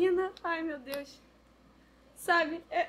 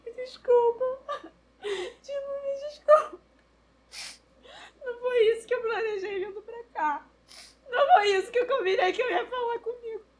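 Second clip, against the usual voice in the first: chorando; 5 semitones higher than usual. Acted. Pede desculpas chorando.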